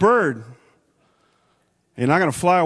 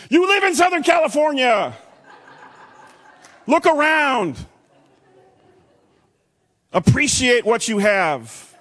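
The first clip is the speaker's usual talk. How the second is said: fervent exhortation; 10 semitones higher, 3 dB louder than usual. Real, not acted. Preacher exhorting congregation.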